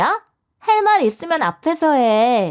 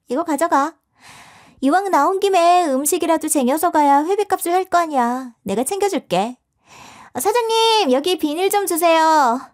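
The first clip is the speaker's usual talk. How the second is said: mock sweetness; 6 semitones higher than usual. Mean girl feigns kindness.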